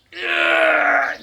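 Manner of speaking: long high-pitched cry of pain; drawn-out yelp, like being waxed; mock pained wail. Demonstrating a compress for waxing, mock pained wail. Mimes ripping strip for hair removal.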